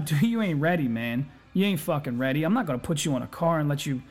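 put-on old boss. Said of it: "My old boss used to tell me".

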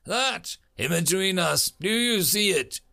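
high-pitched, tense questioning; stressed. A narrator's reading. Major urging the kid to see something between them, stressed. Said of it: "The major's voice was stressed".

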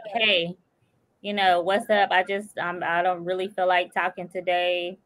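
soft, low example of a gentle brush-off; demo polite brush-off. Shown as a demonstration. Friend showing how to decline a chat, soft and low. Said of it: "Be like".

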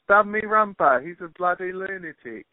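high-pitched Australian attempt slipping into British; botched Australian accent. Shown as a demonstration. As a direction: try Australian, lose it to cockney-style British. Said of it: "You just did it to David Beckham".

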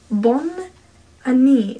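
"Bonne", questioning rise, then "Année"; unsure learner sounding out "Bonne Année"; tentative French pronunciation. Shown as a demonstration. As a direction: try out "Bonne Année" with a pause between words. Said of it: "Do you pronounce the".

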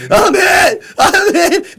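very high wailing cry of a hit cop; mock wounded cop. Mocking the cop who thinks an acorn shot him, high hammed-up wail. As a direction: wail it like a hammed-up dying hero.

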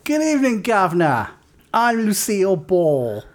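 Nicole Kidman. Acted. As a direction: put on a hammed-up accent for a celebrity impression. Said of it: "Nicole Kidman's like".

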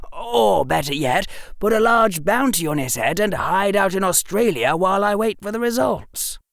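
put-on boyish, eager storytelling; young Harry voice. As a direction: voice a clever young boy. Harry continues.

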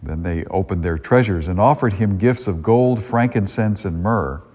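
solemn liturgical proclamation; Gospel reading. Acted. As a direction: read it like scripture at Mass.

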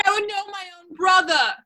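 crying out. Acted. Crying exclamation.

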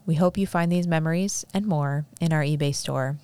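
measured, evenly read sponsor copy. Acted. Host reading a sponsor's shop ad to listeners, ad read. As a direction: read the shop's ad in tidy phrases.

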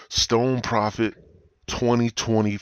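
campaign slogan. Shown as a demonstration. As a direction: proclaim "Stone Prophet" like a rally chant. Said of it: "I gotta run for president".

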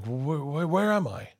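high, stuttering mock panic; stammering confusion. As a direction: stumble into the question, pitch climbing. Reincarnated friend panicking, retold.

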